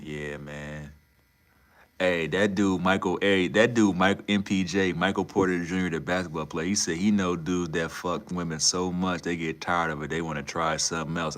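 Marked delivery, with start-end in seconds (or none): 2.0-11.4 loud, excited, to the friend across the room; excited call-out. Real, not acted. Calling over to Molly about the basketball player, loud and excited. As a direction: shout the news over to Molly.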